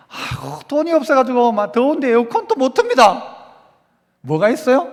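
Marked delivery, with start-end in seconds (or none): 0.1-3.2 groan, then a rising whine; mock complaining. Imagined churchgoer griping about no money for cooling, mock whine. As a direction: gripe in mock distress.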